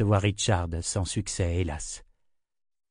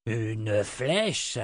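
mild startled echo; a touch of disbelief; surprised cry; 4 dB quieter than usual. A narrator's reading. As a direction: Karg catching the news. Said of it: "s'écria Karg".

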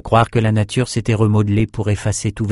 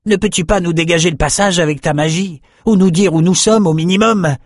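higher, lightly voiced soldier pleading with the wizard; soldier's question; 9 semitones higher, 3 dB louder than usual. Soldier asking the sorcerer to clear the path, lightly voiced. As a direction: push the question, a little impatient. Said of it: "demanda un autre soldat".

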